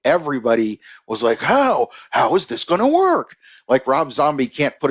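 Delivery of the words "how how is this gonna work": high-pitched incredulous questioning; mock disbelief. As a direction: imitate a baffled crowd with pitch jumping high. Acting out everybody's disbelieving reaction.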